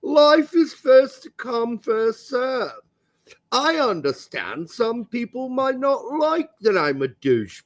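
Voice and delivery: lightly put-on posh English accent, snobby; posh Englishman. Host reads out a snobby public response, mock posh English. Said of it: "I had to read it as a posh Englishman".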